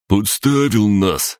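high, slow accusation; the green mokosh blames the hero; accusing. A narrator's reading. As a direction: blame him outright. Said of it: "обвинил зелёный".

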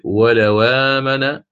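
ولو آمن read slowly with the hamza moved; naql transfer. Shown as a demonstration. Teacher repeating the correct Warsh reading. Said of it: "حكمه كذلك".

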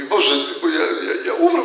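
a frantic, breathless plea that he will die; panicked cry. Retold or imitated. Retold prayer near collapse. (przestraszony, wyższy i głośniejszy okrzyk)

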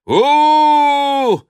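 very high, loud halloo; hunting whoop. Acted. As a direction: hoot up at the cliff. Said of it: "кричал Остап снизу".

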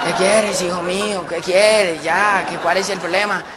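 mild weary exasperation; fed up. Acted. Christ answers the pestering parrot, fed up. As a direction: answer a pest who won't stop. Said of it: "Ya Jesucristo de tan mamado".

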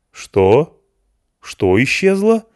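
high loud astonished question. A narrator's reading. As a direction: ask in disbelief. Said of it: "Голос его стал изумлённым".

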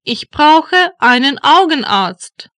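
ordinary talk

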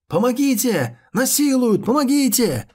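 high, loud cries for help; shouting for help. A narrator's reading. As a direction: yell it out in mock panic. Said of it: "Хан Сень выкрикнул это".

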